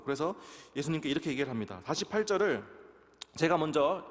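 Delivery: normal talking voice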